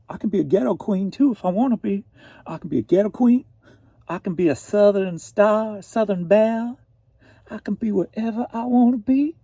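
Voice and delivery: high, loud sassy boasting; sassy bragging. Pretend. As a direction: strut through each line. Brags she can be anything.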